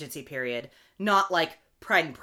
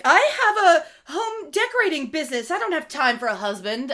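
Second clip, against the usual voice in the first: high, laughing, brisk and self-assured; mock career woman; 9 semitones higher, 6 dB louder than usual. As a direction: send up the busy independent heroine. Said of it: "who were like".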